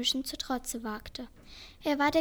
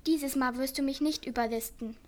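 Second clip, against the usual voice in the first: grumbling. Acted. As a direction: growl it out menacingly. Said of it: "sagte er grollend".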